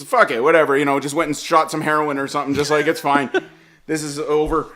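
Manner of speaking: low, soft, resigned voice; mock weary surrender; given up. Mom abandoning the day to dad, resigned. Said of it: "I think she gave up".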